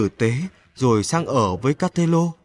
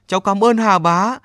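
put-on grateful boy; 7 semitones higher, 4 dB louder than usual. A narrator's reading. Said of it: "miệng nói".

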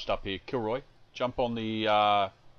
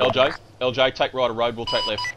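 shouting orders; 2 semitones higher, 9 dB louder than usual. Real, not acted. Calling orders across the field.

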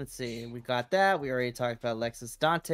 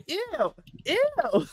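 high-pitched squeal of revulsion; disgusted. Retold or imitated. Viewer reacting to a creepy backstage promo, disgusted. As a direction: recoil from something creepy.

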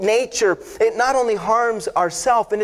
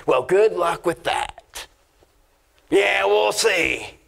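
slow, doubting drawl of a critic; lightly mock the doubter, slowly; a hint of a sceptical buddy; sceptical scoff; slower than usual. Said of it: "just one of those".

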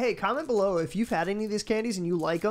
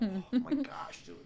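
breathy whispered gasp; 4 semitones higher, 7 dB quieter, slower than usual. Real, not acted. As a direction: whisper it in disbelief. Reacting to burning spicy candy.

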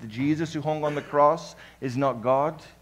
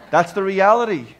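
emphatic; 4 semitones higher, 7 dB louder than usual. Real, not acted. Preacher hammering a point.

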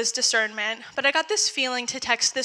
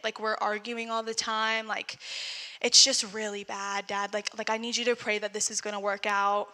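quiet desperate plea; 6 dB quieter than usual. Retold or imitated. Confiding in dad, struggling.

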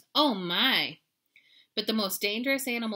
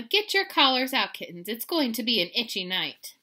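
mama's order; 3 semitones higher, 6 dB louder than usual. Acted. Mama ordering the kittens.

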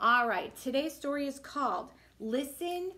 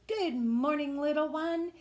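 mommy's greeting; 5 semitones higher than usual. Acted. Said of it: "Mommy gives us wake-up kisses and says".

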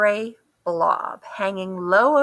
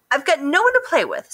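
lonely Duck; 7 semitones higher, faster than usual. A narrator's reading.

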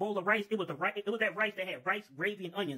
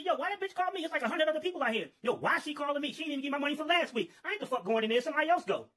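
annoyed grumble; 6 semitones higher than usual. Retold or imitated. Worker grumbles about the boss.

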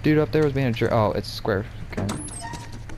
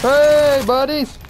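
loud cheerful greeting; 11 semitones higher, 7 dB louder, much slower than usual. Real, not acted. Greeting squad loudly.

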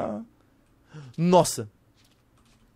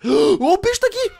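gasp, then high, loud scream; panicked shout; 10 dB louder than usual. Real, not acted. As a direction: shriek as the monster attacks. Monster returns and kills him.

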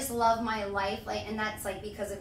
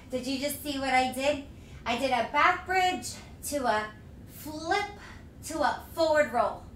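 breathless after flips; panting between words; out of breath. Real, not acted. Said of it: "I'm out of breath".

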